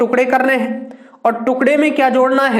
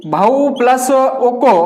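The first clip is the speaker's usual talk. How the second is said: slow split; much slower than usual. Shown as a demonstration. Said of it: "उसको बाहर निकालकर plus के बाद लिखते हैं".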